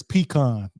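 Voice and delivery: PECAN said pee-KAHN; pecan as pee-KAHN, Dallas-Fort Worth style; local pronunciation. Shown as a demonstration. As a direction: say pecan with an AH in the second syllable. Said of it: "We say here in, in the D F W area".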